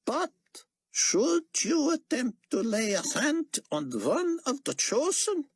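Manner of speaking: slow, grave prophet warning. Acted. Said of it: "Chaim warned".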